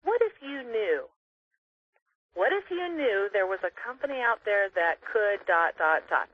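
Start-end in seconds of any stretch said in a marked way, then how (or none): 0.0-4.2 slow demo phrase. Shown as a demonstration. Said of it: "And replace it with".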